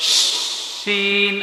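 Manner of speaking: শিন drawn out with the tongue tip making the sh; tongue-tip sheen. Shown as a demonstration. Teacher shows an alternative articulation, tongue-tip শিন. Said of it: "এই যে আগাটা দিয়ে উচ্চারণ করবে".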